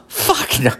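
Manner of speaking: Fuck no through a laugh; laughing refusal. Real, not acted. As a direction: shrug it off laughing. Laughing refusal after Jesus joke.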